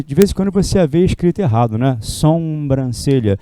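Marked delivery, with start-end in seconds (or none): 2.0-3.4 sobrancelha said slowly and carefully, syllable by syllable; slow demo pronunciation. Shown as a demonstration. Teacher drilling the spelling to students, slow and careful. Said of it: "O certo é sobrancelha".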